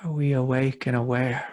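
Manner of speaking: calm guided meditation with long pauses; unhurried meditation guide, spacious pauses. Real, not acted. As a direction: lead listeners gently inward, leaving long silences between phrases.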